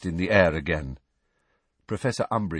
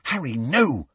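higher, urgent plea; mildly alarmed, voiced warning; whispered warning; 7 semitones higher than usual. A narrator's reading. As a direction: warn a friend anxiously. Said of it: "whispered in a warning voice".

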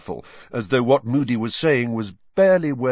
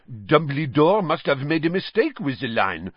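shrugging; 6 semitones higher than usual. A narrator's reading. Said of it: "said Madame Maxime, shrugging".

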